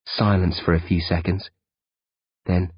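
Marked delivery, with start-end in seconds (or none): none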